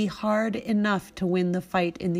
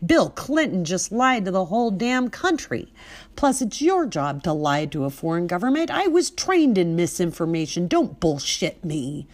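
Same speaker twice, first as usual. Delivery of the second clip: louder, ready for a fight; loud and edgy; 4 dB louder than usual. Retold or imitated. Confronting the agent who refuses her letter, loud and edgy. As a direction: push every line at him, spoiling for a fight. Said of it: "My voice now loud, edgy".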